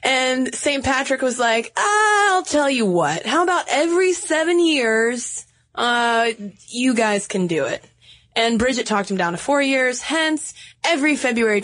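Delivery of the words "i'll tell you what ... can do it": put-on Irish accent. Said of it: "Are you gonna do an Irish accent for this".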